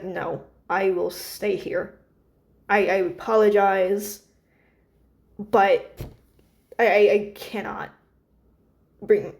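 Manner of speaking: slow, measured, mildly stern refusal. Acted. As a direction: stand firm with halting, deliberate words. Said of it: "we see Cheddar is very stern".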